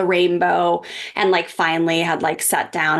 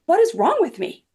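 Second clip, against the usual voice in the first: retold exasperation, pitched up high; exasperated self-questioning; 10 semitones higher than usual. Mother retelling what part of her asked, mildly exasperated. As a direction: replay a higher-pitched, bewildered question to yourself.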